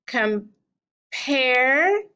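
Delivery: "Compare" slowly with a long PARE; second syllable stressed. Shown as a demonstration. Teacher marking stresses, drawn-out second syllable of "Compare". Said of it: "highlight the one we're going to stress".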